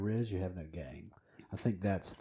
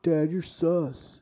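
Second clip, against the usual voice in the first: put-on teen eye roll; 7 semitones higher, 5 dB louder, much slower than usual. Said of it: "roll their eyes and go".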